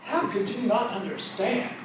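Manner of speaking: mock exasperated Jesus, How stressed and rising; scornful teacher asking How could you not understand; annoyed Jesus. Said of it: "Jesus talked like this".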